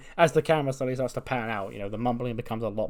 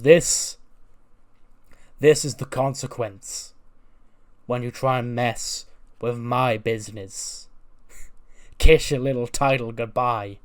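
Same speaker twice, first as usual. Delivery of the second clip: loud, slow taunting over a beaten man; gloating heel; 5 dB louder, slower than usual. Retold or imitated. Logan taunting Humberto, loud and slow gloating. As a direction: lean in and rub it in slowly.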